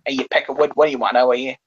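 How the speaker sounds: half-successful put-on Boston accent; attempted Boston accent. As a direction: try out a Boston accent on them. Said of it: "maybe this is more like Boston".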